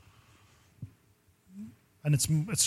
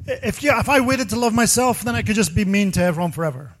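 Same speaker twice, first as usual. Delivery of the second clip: high, loud mock outburst of an upset aunt; hammed-up furious aunt, much higher and louder; imitating angry aunt; 7 semitones higher, 5 dB louder than usual. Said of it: "She goes".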